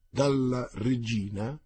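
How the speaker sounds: slow, calm, resonant question. Acted. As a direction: ask it slowly and calmly. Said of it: "con la sua voce calma e vibrante". (calmo e vibrante, lento)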